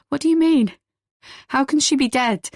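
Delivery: high disbelieving cry; shocked outcry. Acted. Eve on the phone to Gregory, shocked and disbelieving.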